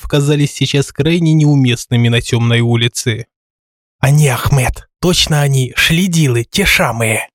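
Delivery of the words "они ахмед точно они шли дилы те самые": nasty lisping little voice; slushy sh for s, sneering. Acted. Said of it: "противный шепелявый голосок".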